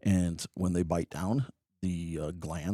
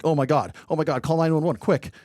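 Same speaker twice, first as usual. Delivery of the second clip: hammed-up cry for help, louder and higher; mock panic; 8 semitones higher, 8 dB louder than usual. Pranking the staff after a lizard bite, mock panic. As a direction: fake alarm to prank the crowd. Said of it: "And I'm like".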